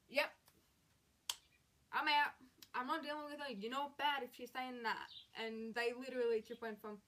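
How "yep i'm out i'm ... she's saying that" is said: mock alarmed exclamation. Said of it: "literally went from".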